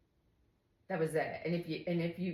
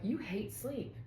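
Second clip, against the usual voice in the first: high-pitched baffled teasing; playful high-voiced mock protest; mock exasperation; 10 semitones higher than usual. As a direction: imitate a baffled partner, pitch swooping way up. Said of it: "he jokes, he's like".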